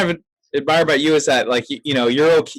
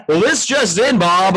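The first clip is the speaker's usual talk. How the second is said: newscaster voice; 5 semitones higher than usual. Retold or imitated. Mocking newscaster after newscaster talk.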